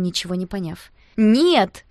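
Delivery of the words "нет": loud sharp denial; shout. A narrator's reading. Girl denying to Danya, loud sharp shout. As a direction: yell it out. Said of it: "выкрикнула я".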